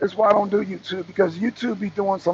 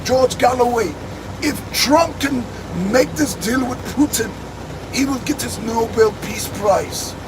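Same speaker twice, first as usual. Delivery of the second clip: put-on George Galloway in Irish accent; 3 semitones higher than usual. Vlogger predicting Trump's prize as Galloway, mock Irish accent. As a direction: pronounce it like an orator with an imitated Irish accent. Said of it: "my Irish accent".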